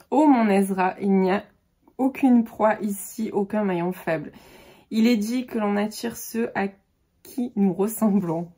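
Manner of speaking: lightly dramatic literary reading; measured blurb narration, leaning into key words; back-cover reading. Acted. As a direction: read the heroine's address with deliberate emphasis. Reads back cover aloud.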